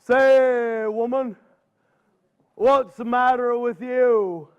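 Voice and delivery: unhurried, slow bear voice at normal pitch; a calm big bear asking the old woman, slowly; Mister Bear's voice. Acted. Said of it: "Mister Bear says".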